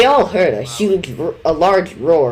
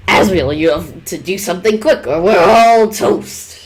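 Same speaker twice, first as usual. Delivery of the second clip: shouting; 2 semitones higher, 6 dB louder than usual. Acted. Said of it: "shouted Kara".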